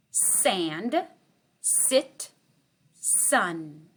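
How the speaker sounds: each word alone with a pause; slow spaced words. Shown as a demonstration. Teacher reading a word list to kindergarten, slow and spaced. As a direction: read slowly so they hear the s.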